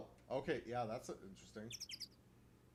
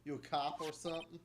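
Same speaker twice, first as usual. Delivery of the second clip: irritated Southern shopkeeper voice; Southern camera lady, annoyed; 4 semitones higher than usual. Acted.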